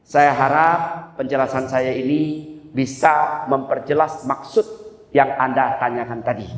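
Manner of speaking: slow, measured, polite sign-off; calm and courteous, unhurried; courteous closing. Shown as a demonstration. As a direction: close politely, taking your time. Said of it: "begini saja tutupnya".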